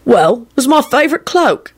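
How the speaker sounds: high, grinning self-justification. A narrator's reading. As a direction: defend it with a cheeky grin. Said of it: "he grinned".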